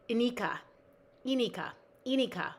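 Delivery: "Inika" with the first syllable stressed. Shown as a demonstration. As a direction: lean on the opening vowel of "Inika". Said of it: "emphasis on first syllable".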